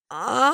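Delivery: mock yelp of surprise; startled mock cry. Host mimics sitting on the finger, startled mock cry.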